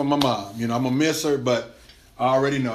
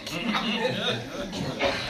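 breathy laugh; 7 semitones higher, 9 dB quieter than usual. Real, not acted. Laughing at own joke.

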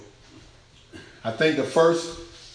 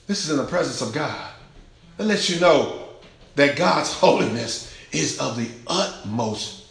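usual speaking voice

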